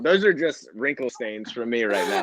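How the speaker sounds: chuckling through a self-deprecating joke; laughing. Real, not acted. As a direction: say it with a real laugh breaking in. Joking about his wrinkles.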